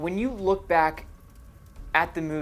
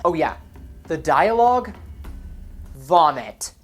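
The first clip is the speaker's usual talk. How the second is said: disgusted; 5 dB louder than usual. Real, not acted. Disgusted verdict on the dialogue.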